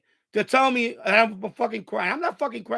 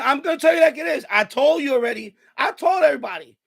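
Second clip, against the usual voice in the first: angry shout; 3 semitones higher, 4 dB louder than usual. Real, not acted. Streamer snapping at his chat.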